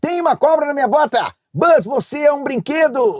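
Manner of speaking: very high, loud, slowed-down, drawn-out cartoon voice. Naming Toy Story and performing its lines: Woody voice. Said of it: "Toy Story".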